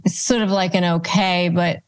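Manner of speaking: normal talking voice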